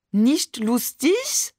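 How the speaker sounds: slow, high mock-French accent; exaggerated French accent. A narrator's reading. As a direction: mimic her French accent, drawn out and teasing. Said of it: "ahmte Barbe übertrieben Mamans französischen Akzent nach".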